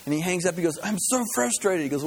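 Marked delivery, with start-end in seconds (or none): 0.8-1.8 higher-pitched mock exasperation; acted-out exasperated complaint; frustrated. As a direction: vent it, lightly hammed up. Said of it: "he's frustrated and he's kinda angry".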